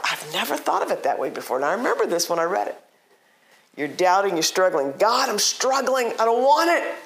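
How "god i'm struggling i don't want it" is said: high-pitched acted prayer; urgent plea. Struggling doubter telling God about the doubt, urgent plea. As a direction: push the doubt away, pitch raised.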